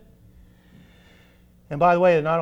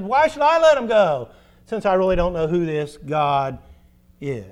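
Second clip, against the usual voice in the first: defiant Pharaoh; 5 dB louder than usual. Acted. Preacher voices defiant Pharaoh.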